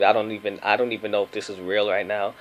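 drowsy, just woke up; half asleep. Real, not acted. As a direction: talk like you just rolled out of bed. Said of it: "I'm still, like, half asleep".

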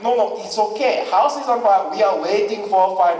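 put-on comic unbothered dad with Japanese accent; calm Japanese accent. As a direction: reassure placidly in a Japanese accent. Dad calmly answers frantic mom, accented.

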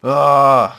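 loud drawn-out "ah"; exasperated groaning yell. Acted. Player at his own human instincts, exasperated yell.

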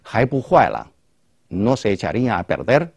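"Haibu huaila" as a rhetorical question, "perder" rising at the end. Shown as a demonstration. Teacher models a rhetorical question for learners, "perder" rising. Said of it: "para hacer una pregunta retórica".

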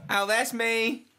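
high silly voice. Acted.

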